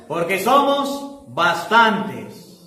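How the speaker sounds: very slow, eerie demon drawl. Retold or imitated. The demon explaining to Jesus why they are many, slow and eerie. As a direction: stretch every word like a many-voiced demon.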